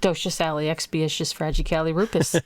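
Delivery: saying the word backwards; backwards speech. Pretend. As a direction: stumble through it in reverse. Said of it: "Can you say it backwards?".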